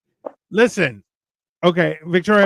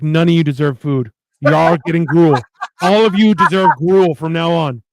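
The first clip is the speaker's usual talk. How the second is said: mock angry decree; 3 dB louder than usual. Imagined outburst at whoever served it.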